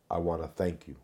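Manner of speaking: quoting a calm mother, slightly soft; softened, even voice for a mother's thanks; calm retold thanks. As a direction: say it quietly composed, as the bereaved mother did. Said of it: "and very calmly".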